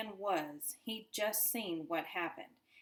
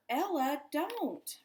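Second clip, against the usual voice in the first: a high, loud, desperate cry; urgent warning; 8 semitones higher, 5 dB louder, slower than usual. A narrator's reading. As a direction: shout at her to stop, pitch climbing. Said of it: "Richie warned again".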